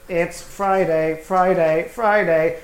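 slow robot droid singing Friday; battle droid voice. Retold or imitated. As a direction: sing it like a clunky battle droid. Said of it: "the Star Wars battle droid voice".

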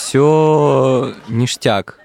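drawn out. Real, not acted. Stretched-out summing up.

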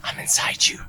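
whispered, breathy and close; creepy whisper. Pretend. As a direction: hiss it right into their ear. Creepy stoned-listener joke.

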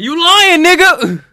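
loud high furious shout; aggressive yell. Pretend. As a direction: yell the insult at him. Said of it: "Wow, that was aggressive".

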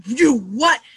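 playful re-enacted indignation; retold disbelief. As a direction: blurt it out in disbelief. Retold shock at friend's news.

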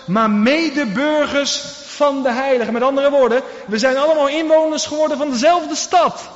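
preaching hard to the congregation; fervent preaching. Acted. Preacher building to full force.

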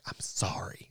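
hushed, mouthed apology; sheepish whisper. Retold or imitated. Driver who took the wrong lane to another, sheepish whisper. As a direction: whisper it like a guilty admission.

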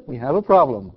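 low, dry "problem" falling flat at the end; lightly quoting mission control, said low and calm; Houston deadpan. Retold or imitated. Preacher borrows the Houston line to a laugh, low deadpan. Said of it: "As they say in Houston".

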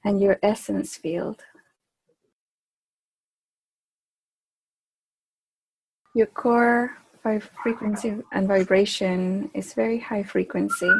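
slow, drawn-out meditation guidance; spaced-out phrases with long pauses; guided meditation. Acted. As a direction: lead a group into stillness, unhurried. Leads a group meditation.

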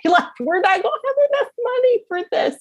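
high-pitched, rushed fretting; high, fast acted-out fretting; mock worry. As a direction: voice the money worry high and quick. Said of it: "my biggest worry".

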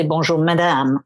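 "Bonjour, madame" in a polite French greeting. Shown as a demonstration. Englishwoman shows her polite French greeting. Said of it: "I always say".

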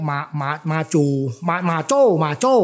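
"หมาจู" corrected to "หมาโจ้", Teochew style; Teochew pronunciation. Shown as a demonstration. Expert recalling the Teochew name, feeling out "หมาจู" and "หมาโจ้". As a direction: try out Teochew "หมาจู", then settle on "หมาโจ้". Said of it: "คนแต้จิ๋วก็เรียก".

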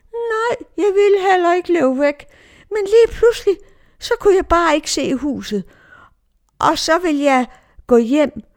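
imitated small child telling what happened, high-pitched; Dorte. Lost little girl explains herself to the adults, imitated high child voice. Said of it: "Og så spurgte vi Dorte".

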